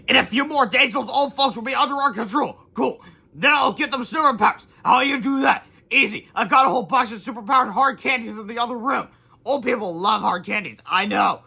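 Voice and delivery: high, loud cartoon villain voices; scheming villains. Bad guys boasting about controlling old folks, loud cartoony villains. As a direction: gloat like silly bad guys.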